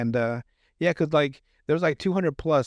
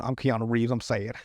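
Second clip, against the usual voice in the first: mock sad voice; 3 semitones lower than usual. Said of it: "never seen someone saddy before like that".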